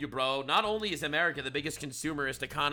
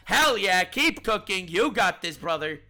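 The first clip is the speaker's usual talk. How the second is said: sarcastic cheering; 2 semitones higher, 4 dB louder than usual. Real, not acted.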